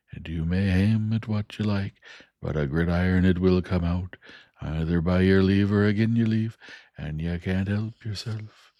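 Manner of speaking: homely Joe spelling out the parting; Joe the blacksmith. Acted. Joe voiced in story.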